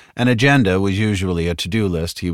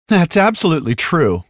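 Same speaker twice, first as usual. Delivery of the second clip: bright saleswoman voice; 12 semitones higher, 5 dB louder than usual. A narrator's reading. Wells voiced.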